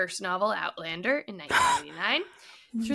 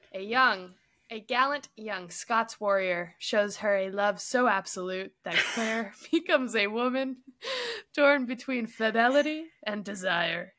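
lightly put-on Scottish accent for a dramatic book blurb; terrible Scottish accent. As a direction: read the summary theatrically, slipping in and out of Scottish. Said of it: "Just terrible Scottish accents".

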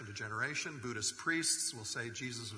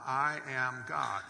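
slow emphasis; much slower than usual. Acted. Repeated claim for emphasis.

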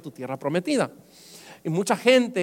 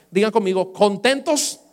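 rallying call; 5 dB louder than usual. Acted. Calls church to shout.

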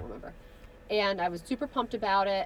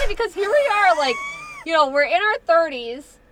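laughing hard through words; high, loud laughing talk; 9 semitones higher, 8 dB louder than usual. Real, not acted. Laughing hard while telling.

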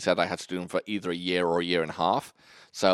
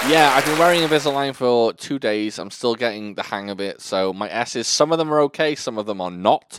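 slight lisp on the S sounds; 4 dB louder than usual. Real, not acted. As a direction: talk through new aligners. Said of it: "Barely noticeable".

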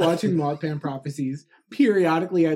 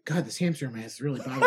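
laughing mock complaint; 5 semitones lower, 4 dB quieter, much faster than usual.

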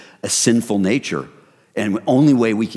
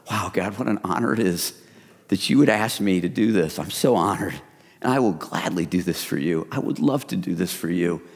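softer, sincere prayer of acceptance; humbly grateful; 2 semitones lower, 4 dB quieter than usual. Pretend. Believer answering God's request, humbly grateful. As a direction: accept the honor softly and sincerely.

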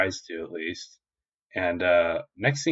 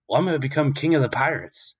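lightly voiced, higher boast; declaring Luffy; 6 semitones higher than usual. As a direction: announce it higher, as a grand plan. Luffy declares his ambition.

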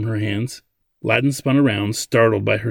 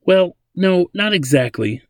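hesitant, higher-pitched hedge; apprehensive; 8 semitones higher, 4 dB louder than usual. A narrator's reading. Ladin dodges the old man's question, apprehensive. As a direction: hedge it uneasily. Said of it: "as he stared apprehensively at Simic".

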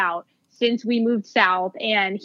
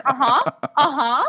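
bored judge. Retold or imitated. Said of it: "the judge is like".

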